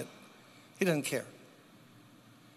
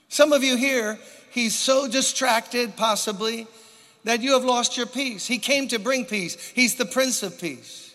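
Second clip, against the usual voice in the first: raised-pitch, insistent pulpit delivery; earnest preaching; 5 semitones higher than usual. Real, not acted. Preacher warning a congregation of what is stolen, urgent preaching. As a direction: press the point on the congregation. Preacher builds up his main point.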